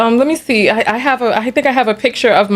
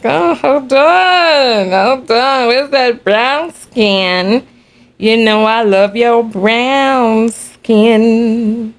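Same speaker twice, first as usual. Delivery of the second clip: tender coo; much slower than usual. Real, not acted. Cooing over her own photo.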